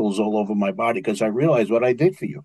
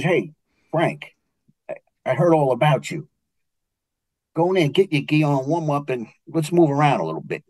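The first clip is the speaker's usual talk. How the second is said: put-on Brooklyn accent. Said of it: "Chinese with a Brooklyn accent".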